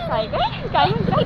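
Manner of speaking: sudden high amused squeak of disbelief; playful astonished double question; surprised. Real, not acted. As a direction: jump up in pitch, can't believe what he said. Boy says a hundred o'clock.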